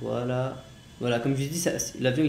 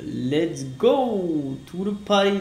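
excited; 4 semitones higher, 4 dB louder, much slower than usual. Real, not acted. Takeoff in flight game.

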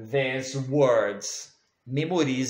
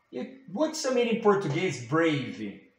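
mock pupil asking; 3 dB quieter than usual. Teacher plays a pupil asking the meaning. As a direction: ask like a curious child.

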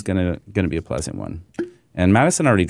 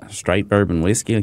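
Kentucky accent. Shown as a demonstration. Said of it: "You gotta say it in your accent".

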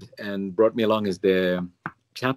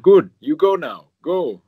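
higher, slow imitation of a foreign accent; Father Marinko's accent; 7 semitones higher, 5 dB louder, slower than usual. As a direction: send them away in the priest's mimicked accent. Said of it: "I shouldn't do the accent".

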